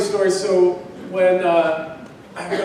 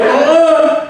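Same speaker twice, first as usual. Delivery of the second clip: higher-pitched mock refusal; playful wifely no, pitched up; imitating wife; 9 semitones higher, 4 dB louder than usual. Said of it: "She was like".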